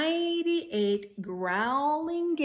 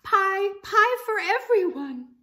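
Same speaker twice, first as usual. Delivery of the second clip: high, loud breathless cry of delight; gasping excitement; 11 semitones higher, 8 dB louder than usual. Acted. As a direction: burst out with the news, much higher and louder. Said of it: "she gasped".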